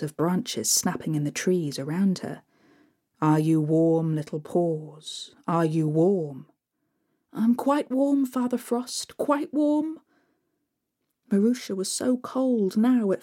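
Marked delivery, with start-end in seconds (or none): 3.2-6.5 lightly voiced Father Frost. Father Frost asks again. 7.3-10.0 higher, bright brave answer; lightly voiced girl. Marusha answers Father Frost, higher and brave.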